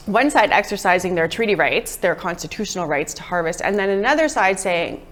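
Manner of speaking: hoarse, tired voice giving out; losing voice. Real, not acted. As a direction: talk through a hoarse, worn-out throat. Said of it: "sorry, I'm losing my voice here".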